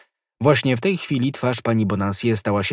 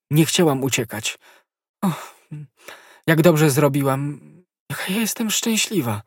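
a lightly higher voice, overjoyed and relieved; joyful young woman; 6 semitones higher than usual. Acted. Konstancja greets her rescuer D'Artagnan, joyful. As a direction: voice her rushing joy at being rescued.

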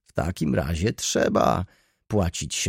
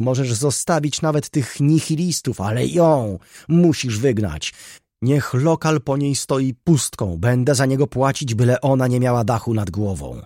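high, loud, forceful tirade; vehement outburst; 6 semitones higher, 7 dB louder than usual. A narrator's reading. Baroness demanding her rival be thrown out, vehement outburst. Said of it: "wybuchnęła z nową siłą głosu".

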